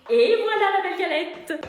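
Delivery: slow, proud presenting; proud announcement. Acted. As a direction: show off the cake proudly.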